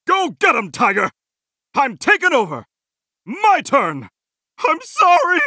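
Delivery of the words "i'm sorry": higher, distressed cry of sorry; pained apology. Acted. Game hero apologising in distress, pained and high. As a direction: blurt out a pained apology, voice raised.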